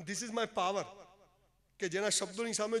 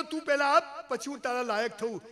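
demanding; 4 semitones higher, 8 dB louder than usual. Retold or imitated. Man demanding of God.

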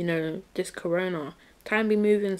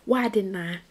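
acted regret; 2 semitones higher than usual. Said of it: "you don't think".

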